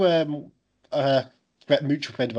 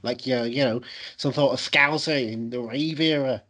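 put-on Scouse podcast patter; Liverpudlian accent; 3 semitones lower than usual. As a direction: lay on a playful Liverpudlian accent. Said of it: "we're doing a Liverpudlian movie this week".

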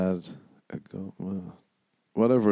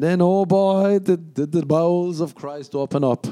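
excited; 8 semitones higher, 4 dB louder than usual. Real, not acted. Dramatic buildup to diarrhea story.

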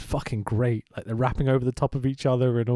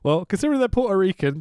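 laughing; 7 semitones higher, 4 dB louder, faster than usual. Real, not acted. Laughing while joking.

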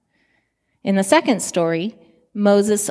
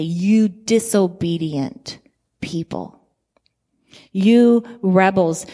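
harsh rebuke. Retold or imitated. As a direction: lash out at the rebels, slowly and pointedly. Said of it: "Moses spoke harshly".

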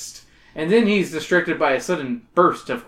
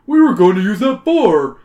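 louder, aggrieved complaint; complaining; 5 semitones higher, 8 dB louder than usual. Acted. Workman complaining about the ruined bar. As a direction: grumble it up at him, annoyed. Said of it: "he complains".

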